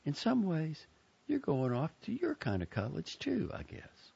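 kindly. A narrator's reading. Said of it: "said kindly".

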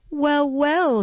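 lifted, kindly soothing; good-humored. A narrator's reading. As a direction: reassure the sick boy gently. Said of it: "said the old lady good-humoredly".

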